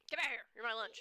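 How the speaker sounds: high, loud hungry predator voice; menacing predator. Pretend. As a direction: threaten it like a hungry beast. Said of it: "I'm like".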